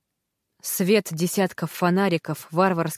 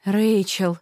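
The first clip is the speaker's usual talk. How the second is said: tender. Acted. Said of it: "ласково произнесла мама".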